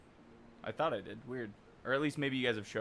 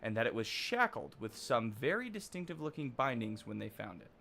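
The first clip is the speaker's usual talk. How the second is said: gruff quest giver; 3 dB louder than usual. Acted. Reads quest NPC dialogue.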